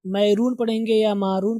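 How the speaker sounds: मैरून with full "mai", मारून with long "maa"; full first vowels in मैरून and मारून; common mispronunciations. Shown as a demonstration. Teacher predicting learners' mistake, मैरून and मारून with long first syllables. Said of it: "आप इसको पढ़ेंगे सौ percent".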